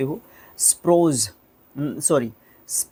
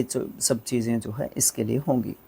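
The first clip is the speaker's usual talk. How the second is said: whisper; 3 semitones lower, 5 dB quieter than usual. Real, not acted. Quiet aside while wrapping up.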